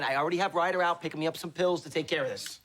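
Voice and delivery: ordinary delivery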